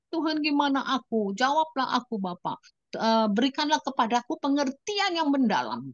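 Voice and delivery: high, pleading prayer; tearful prayer. Retold or imitated. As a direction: weep and ask for understanding. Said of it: "nangis lagi aku". (doa sambil menangis)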